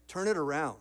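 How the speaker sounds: unruffled, low-key retold instruction; calm voice. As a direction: say it calmly and evenly, no fuss. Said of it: "in a calm voice, he goes".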